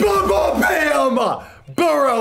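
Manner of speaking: loud voice cracking very high, "bam" drawn out. Announcing a player's upgrade to Gunslinger: voice cracking. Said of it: "my voice just cracked".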